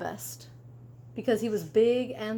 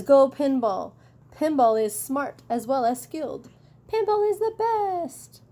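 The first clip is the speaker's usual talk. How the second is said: loud cheer, climbing much higher at the end; cheering fan; 4 semitones higher, 5 dB louder than usual. Acted. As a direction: shout it like a fan in the stands. Reading fans' cheering signs.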